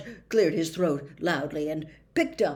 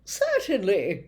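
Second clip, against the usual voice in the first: smiling; 2 semitones higher, 4 dB louder than usual. Acted. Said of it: "with a smile".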